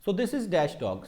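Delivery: this is dash dog, slowed right down; slow dictation. Shown as a demonstration. Teacher reading the sentence slowly for notebooks. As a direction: spell it out for the class to copy. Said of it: "so statement was".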